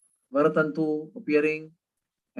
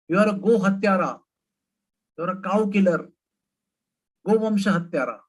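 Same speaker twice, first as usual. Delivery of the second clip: raised, indignant scolding, higher pitch; gopis scolding; 5 semitones higher than usual. Acted. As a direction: scold him like an outraged village woman.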